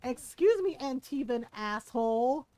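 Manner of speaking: loud indignant jab; angry retort. Retold or imitated. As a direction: call him out with outrage. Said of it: "she got mad".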